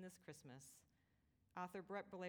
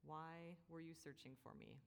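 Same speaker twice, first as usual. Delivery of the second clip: nonchalant. Shown as a demonstration. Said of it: "Very matter of fact and nonchalant".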